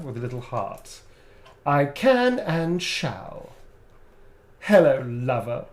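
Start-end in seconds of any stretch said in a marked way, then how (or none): 1.7-5.6 slow, purring vampire flirt; lightly voiced sassy vampire; Astarion voice. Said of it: "your fantastic sassy vampire performance".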